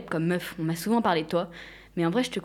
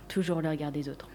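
soft unvoiced whisper; 3 semitones lower, 5 dB quieter than usual. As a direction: breathe it out as a whisper. Sigh after "regard des autres.

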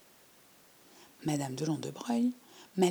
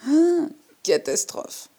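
high, loud, slow wail of alarm; dismayed cry; 9 semitones higher, 9 dB louder, slower than usual. A narrator's reading. Girl sinks into a broken armchair, crying out in alarm. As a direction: gasp it out as you sink in.

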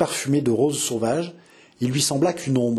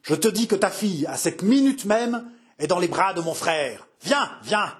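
roaring; 5 semitones higher than usual. Acted. Henri roaring to the father about his daughter. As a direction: hammer out each word in rage. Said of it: "rugit-il".

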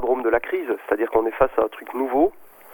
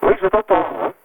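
glitchy robotic phone line; distorted digital phone voice; 8 semitones higher, 5 dB louder than usual. Real, not acted. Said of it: "tu as une voix de robot".

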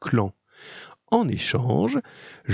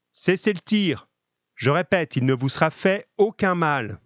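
calling out; 7 semitones higher than usual. Acted. Attacker calls out to gendarmes.

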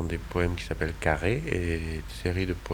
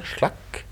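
slicing sound effect; 3 dB quieter than usual. Shown as a demonstration. Mimes grabbing each line.

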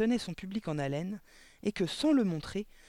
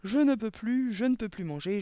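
higher plea, fading; crying out; 4 semitones higher than usual. A narrator's reading. Imagined boy gives up on the cake, crying out. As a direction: cry out in surrender, then weaken. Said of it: "et de s'écrier".

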